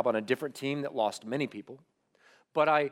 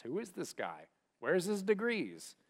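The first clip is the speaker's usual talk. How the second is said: much softer, almost breathed; doubting inner voices; 4 semitones higher, 11 dB quieter than usual. Retold or imitated. Pastor voices the critics' questions echoing in his head, hushed. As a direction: murmur it like a nagging voice in your head.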